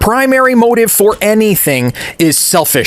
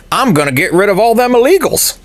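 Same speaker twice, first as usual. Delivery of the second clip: mock Republican politician. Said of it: "old white Republican gets up to a podium and says".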